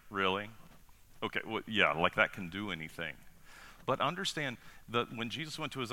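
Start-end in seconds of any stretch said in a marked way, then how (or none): 0.1-3.2 mildly sarcastic, doubting aside. Acted. Disciple doubting the boy's small lunch, sarcastic. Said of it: "wants to hear sarcasm".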